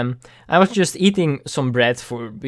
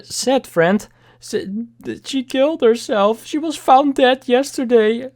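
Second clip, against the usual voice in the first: tearful mother; 10 semitones higher than usual. Retold or imitated. Retells mother's tearful news.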